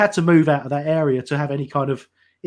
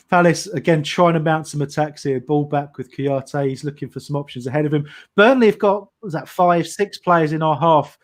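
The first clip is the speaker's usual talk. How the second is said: play-by-play commentary. Acted. Live play-by-play of the match.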